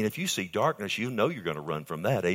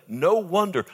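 higher and louder, No wonder flung out; preacher crying out Paul's exclamation; shouted exclamation; 8 semitones higher, 5 dB louder than usual. Shown as a demonstration. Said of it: "He shouts it".

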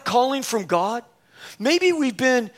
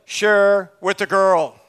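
slow, low, solemn voice of God; the Lord speaking; 5 semitones lower, 5 dB louder, slower than usual. Retold or imitated. Preacher voices the Lord telling him to share, slow and solemn. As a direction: deliver it slowly like a voice from above. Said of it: "the third time it was like".

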